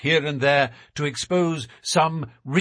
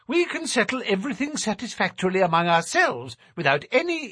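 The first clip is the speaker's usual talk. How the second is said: high, thin nervous little man; 5 semitones higher, 3 dB louder than usual. A narrator's reading. Narrator voices Thaddeus.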